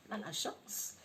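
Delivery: laughing whisper. Real, not acted. Laughing aside after the impression.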